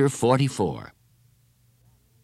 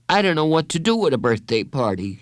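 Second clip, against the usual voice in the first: put-on higher, mildly panicky boy's voice; understated anxious shiver, pitched up; 7 semitones higher than usual. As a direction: confess it with a touch of fear. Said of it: "he said, shivering".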